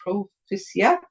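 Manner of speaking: Dutch and German words given a French accent. Real, not acted. Crafter reading congratulations in unknown languages, French accent. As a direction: read it carefully in a French accent. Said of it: "I say everything with a French accent".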